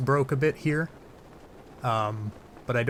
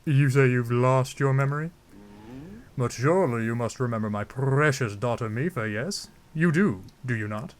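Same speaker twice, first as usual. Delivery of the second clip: theatrical king, lightly taken aback; King Dorephan. Acted. Zora king asks Link about his memory, stately put-on voice. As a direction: question it as a stately ruler. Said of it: "I don't know why I'm giving him that voice".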